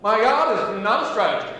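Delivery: slow, drawn-out realisation; hammed-up "oh my God" moment; mock dismay. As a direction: let the penny drop slowly. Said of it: "And then you say".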